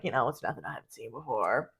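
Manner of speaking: casual reassurance. Retold or imitated. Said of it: "he was like".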